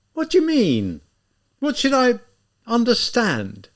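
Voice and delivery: high, panicked stammer. A narrator's reading. Zamyotov panics under Raskolnikov's stare, high and halting. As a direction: grasp at the words in panic. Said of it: "almost in a state of panic".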